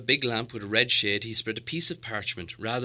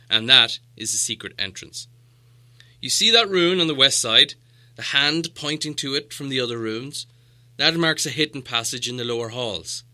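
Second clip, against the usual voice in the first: the wizard explaining, a bit louder; knowing wizard; 3 semitones higher, 8 dB louder than usual. Acted. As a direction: reveal the hidden passage. Gandalf explains the rune.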